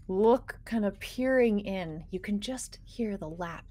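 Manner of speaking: game master scene-setting. Acted. Game master describes moon pool.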